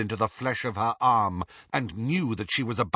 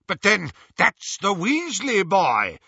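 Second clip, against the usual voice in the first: high, loud cry of recognition; shouted; 10 semitones higher, 6 dB louder than usual. A narrator's reading. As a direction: shout out the discovery. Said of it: "shouted Lucius".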